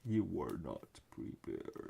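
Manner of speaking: slow robot voice. Retold or imitated. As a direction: drag it out like a game robot. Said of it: "Yeah, like that".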